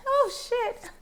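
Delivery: laughing burst of shock, jumping high. Real, not acted. Reacts to shocking card.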